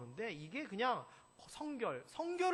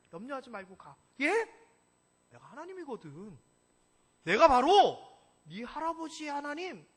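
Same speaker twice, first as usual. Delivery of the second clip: lightly voiced reassuring God; 5 dB louder than usual. God speaking to Jacob.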